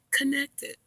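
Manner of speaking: high robotic-announcement impression; imitated high-pitched Bluetooth prompt. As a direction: mimic a device announcing a pairing. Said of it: "when my Bluetooth say".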